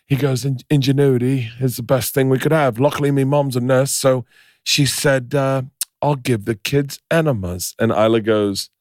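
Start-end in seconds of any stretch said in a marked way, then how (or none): 0.4-7.7 rough, put-on Irish-Scottish accent. Survivor on the boat praises his nurse mother, Irish-Scottish accent. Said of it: "I don't know what accent I'm doing".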